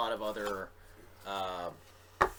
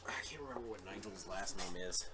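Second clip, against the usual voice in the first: whispered aside; 3 semitones lower, 6 dB quieter than usual. Real, not acted. Aside to himself.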